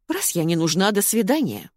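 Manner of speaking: plain reading voice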